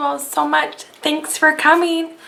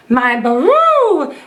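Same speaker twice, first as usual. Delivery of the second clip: elephant shout; 5 semitones higher, slower than usual. A narrator's reading. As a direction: trumpet the boast. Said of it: "shouted the elephant".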